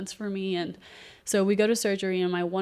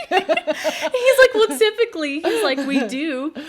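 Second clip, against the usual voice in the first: can barely get the words out for laughing; 10 semitones higher, 12 dB louder, slower than usual. Real, not acted. Retelling the surgeon's staples answer to the host, laughing. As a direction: quote the surgeon through real laughter, high and loud.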